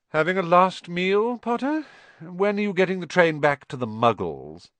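high, loud mocking taunt; bully jeering at a rival; Malfoy sneer.

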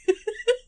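high squealing rewind noise; tape rewinding. Pretend. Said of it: "my really bad rewind noise".

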